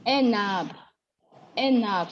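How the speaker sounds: "enab" linked as en-nab, falling at the end; with liaison. Shown as a demonstration. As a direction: repeat "enab" with N carried onto ab. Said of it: "we're now saying enab".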